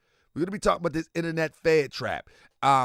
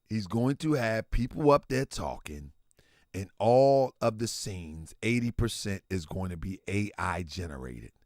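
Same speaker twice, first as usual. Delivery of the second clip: low muttered quote; 12 semitones lower, 6 dB quieter than usual. Retold or imitated. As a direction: mutter the friend's complaint under your breath. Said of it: "I'ma say it in our language".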